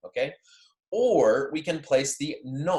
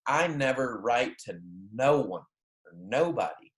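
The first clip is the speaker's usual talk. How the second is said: literal double negative. Shown as a demonstration. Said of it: "if you're looking at it in Spanish".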